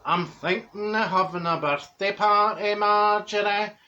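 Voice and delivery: slow, drawn-out impression of a friend; slow-talking Dorothy. Friend announces her birthday party to Marjorie, slow imitated voice. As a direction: imitate her, stretching the words out. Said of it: "So she says".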